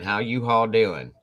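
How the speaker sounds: U-Haul drawn out slow, with an H; Y'ALL said as U-Haul. Shown as a demonstration. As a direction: stretch "U-Haul" slowly in place of y'all. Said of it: "Exactly what you're saying".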